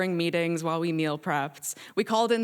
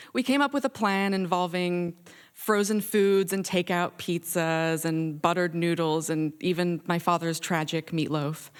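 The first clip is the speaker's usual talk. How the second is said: ordinary delivery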